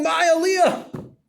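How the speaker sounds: high, loud and slow, dragged out; stretched-out outraged cry; fading scream. Retold or imitated. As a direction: wail it as he faints. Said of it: "He screams at him".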